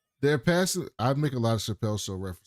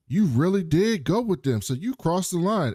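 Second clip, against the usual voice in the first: higher-pitched mock accusation; pointed accusation; 6 semitones higher, 3 dB louder than usual. Sims confronts Billings about going with them, accusing. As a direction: throw it out as an accusation. Acted accusation in a retold quarrel.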